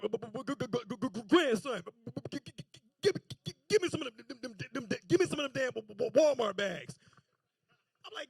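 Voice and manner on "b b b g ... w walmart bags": stuttering granddaddy. Retold or imitated. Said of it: "'cause he get to stuttering".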